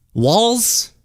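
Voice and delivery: "Walz" with no T, high rising end; corrected name pronunciation. Shown as a demonstration. Host fixing the governor's name, "Walz" without the T. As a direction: say "Walz" like walls, as a question. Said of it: "Not Waltz, but Walz".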